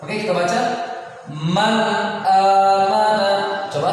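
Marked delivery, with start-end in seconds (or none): 1.3-3.3 MAN with a crisp, clear n before amana; clear izhar. Shown as a demonstration. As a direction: say the n of Man distinctly, then amana. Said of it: "Jelas kan dibaca apa?". ("Man" dibaca jelas nun-nya)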